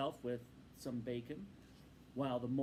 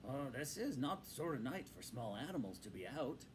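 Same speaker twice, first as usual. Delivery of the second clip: kindly. Acted. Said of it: "looked kindly down at them".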